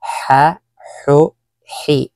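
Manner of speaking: ha, hu, hi breathed from the throat; breathy ha drill. Shown as a demonstration. Teacher drills students on the throaty ha sound. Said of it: "sanayin nyo yung papaano ang tamang pagbigkas ng ha".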